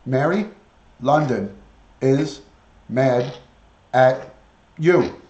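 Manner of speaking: each word spaced and punched. Acted. Telling the parrot Mary London is mad, each word separate. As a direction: spell it out slowly to the bird.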